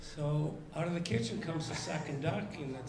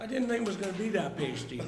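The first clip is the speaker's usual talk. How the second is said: talking through a mouthful; words round a bite of food; mouth full; 3 semitones higher, faster than usual. Real, not acted. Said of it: "Fucking swallow first".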